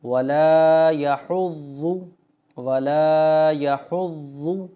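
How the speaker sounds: measured tajweed recitation for learners; Quran recitation. Shown as a demonstration. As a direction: recite it clearly with held long vowels. Slow Quran recitation demo.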